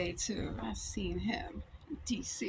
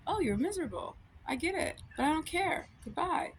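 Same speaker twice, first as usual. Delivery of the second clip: lightly higher, dismissive put-on voice; mock-sympathetic brush-off; 5 semitones higher than usual. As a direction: brush them off with fake sympathy. Trolling an imagined annoying person.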